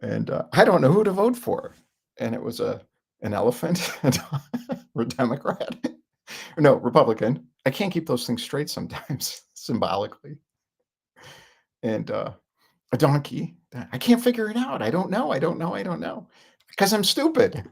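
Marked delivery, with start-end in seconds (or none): 0.5-1.7 high, louder dopey voice; confused voter. Retold or imitated. Skit voter whining he can't choose, high and dopey. 13.9-17.6 high, dim-witted bleat; dopey donkey. Retold or imitated. Skit donkey confessing it's stupid, high and dopey.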